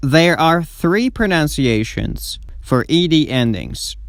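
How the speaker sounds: very slow, careful English sentence; slow model reading. Shown as a demonstration. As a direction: read it slowly for students to copy. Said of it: "slow English model sentence". (خواندن آهسته و شمرده)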